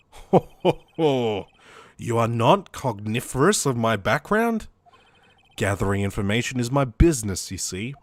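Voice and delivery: villain's ho-ho chuckle, then low voice; low, self-satisfied bad guy. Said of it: "I wanna do a bad guy voice".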